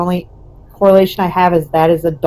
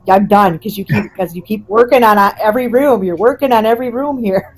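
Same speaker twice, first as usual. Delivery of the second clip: mock-cranky complaint, slightly raised voice; 3 semitones higher than usual. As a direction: imitate a fed-up old woman grumbling. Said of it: "her old cranky voice".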